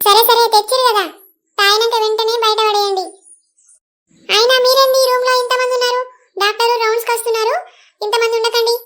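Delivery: a nurse telling visitors off. Acted. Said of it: "పెద్దమ్మ, ఆమె nurse".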